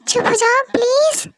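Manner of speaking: breathy pleading hush; pleading whisper. Acted. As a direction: hush the baby in a desperate whisper. Soothing crying baby, begging.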